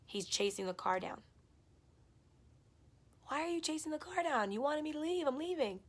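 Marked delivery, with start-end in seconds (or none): 3.3-5.8 much higher, exasperated; retold exasperation. Girlfriend retelling exasperated words to the boyfriend chasing the car, much higher. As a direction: throw it at him, pitched up high.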